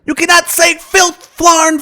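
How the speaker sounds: high, sing-song fatherly voice; a lilting storytelling dad; Bill Cosby impression. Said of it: "That's when Bill got pissed".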